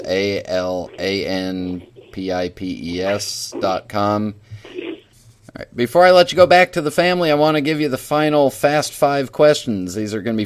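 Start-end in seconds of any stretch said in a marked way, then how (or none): 0.0-4.3 letters spelled one by one, slowly. Shown as a demonstration. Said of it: "Allen Pipes".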